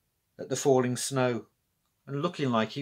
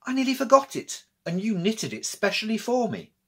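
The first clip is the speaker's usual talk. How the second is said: put-on excited boy voice; 9 semitones higher than usual. A narrator's reading. Jacques remembers his scarf.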